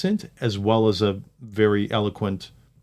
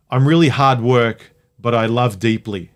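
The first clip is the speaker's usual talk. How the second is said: loud, drawn-out mock confession; mock declaration; 5 dB louder than usual. Mocking people who pose as difficult but loving, mock declaration. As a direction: proclaim it slowly in mock earnest.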